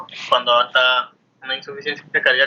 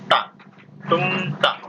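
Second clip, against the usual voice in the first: heartbeat onomatopoeia; 4 semitones higher, much slower than usual. Shown as a demonstration. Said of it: "en la descripción decimos".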